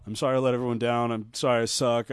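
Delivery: mildly mopey imitation of an apology; a touch of mock self-pity; half-hearted mimicked sulking; mock sorry. Mimics a losing fighter's apology email.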